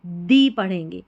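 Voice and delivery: दी said with a long ee; the said as dee. Shown as a demonstration. Teacher showing students दी before a vowel sound. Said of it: "तो हम इस टीएचई को दा नहीं पढ़ेंगे".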